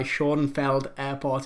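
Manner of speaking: "Schoenfeld" read firmly as it is spelt; anglicised mispronunciation. Real, not acted. Quizmaster rereading the question, "Schoenfeld" deliberately anglicised. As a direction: say "Schoenfeld" slowly in English sounds, without the accent. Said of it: "If it's not pronounced like that".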